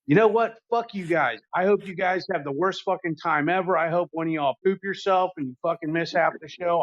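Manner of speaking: a hammed-up jealous rant at his buddy; mock livid rant. Jealous friend telling off his ticket-holding buddy, mock livid rant. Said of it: "I was lividly pissed".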